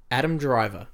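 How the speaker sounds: measured, deliberate headline reread; careful, spaced-out delivery; slowed-down repeat. Shown as a demonstration. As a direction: spell it out slowly for the listener. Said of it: "I'll slow it down for you".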